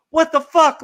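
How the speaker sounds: high, indignant cry of disbelief; mock outrage. Retelling the fans reacting to the sellout, high mock outrage. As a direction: voice the whole crowd's shock.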